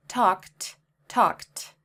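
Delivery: talked with a crisp t ending; talked as one syllable; repeat talked. Shown as a demonstration. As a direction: say talked for careful listening. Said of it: "Let's listen again".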